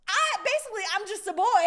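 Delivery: high, loud dad protest, imitated; hammed-up helpless excuse; pleading defense. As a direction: plead helplessness, half laughing. Dad defends himself to mom.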